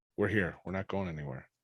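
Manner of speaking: soft, hushed half-whisper in the same tone. Voicing Murdoch, hand on a companion's shoulder, half-whispering. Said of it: "just whisper right with that same tone".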